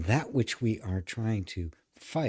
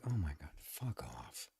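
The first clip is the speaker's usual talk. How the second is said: dismissive brush-off; 6 semitones lower, 14 dB quieter than usual. Retold or imitated. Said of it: "one of my favorite responses".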